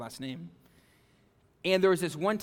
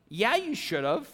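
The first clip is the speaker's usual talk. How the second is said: put-on loud teen bravado; 7 semitones higher, 5 dB louder than usual. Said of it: "And I'm like".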